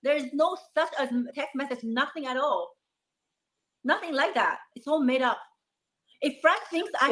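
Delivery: high, agitated denial; upset denial. Real, not acted. Denying cheating accusation, upset.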